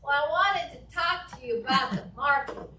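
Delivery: bright laughing phone voice; a cheerful laughing call; laughing while talking. Shown as a demonstration. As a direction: smile and laugh through the words. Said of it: "Also smiling".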